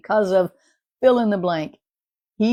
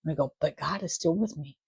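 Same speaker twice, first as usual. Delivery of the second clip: soft reassurance; 3 semitones lower, 4 dB quieter than usual. Retold or imitated. Calming declaration of trust.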